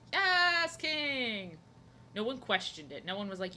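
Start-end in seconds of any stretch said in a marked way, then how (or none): 0.1-1.6 high, loud, reverent "Yes, King"; a crowd in awe of their king; mock-worshipful fans hailing a singer; adoring fans.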